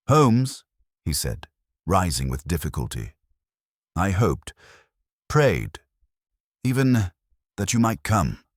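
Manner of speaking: a frail man's rush of relief; eager relief. Acted. Tredlow greeting Holmes at last, in eager relief.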